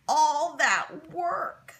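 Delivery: slow mournful moan over the ruined quilt. A narrator's reading. Sam Johnson mourning the mud-soaked quilt, slow moaning. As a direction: drag the words out in dismay. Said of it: "Sam Johnson moaned".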